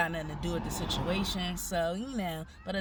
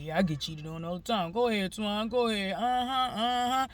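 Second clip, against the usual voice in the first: mocking his mom; 3 dB louder than usual. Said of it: "'cause they like".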